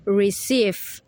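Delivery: "receive" with the second syllable drawn out; stress on CEIVE. Shown as a demonstration. Student repeating primary stress, CEIVE leaned on in "receive". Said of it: "and primary stress is".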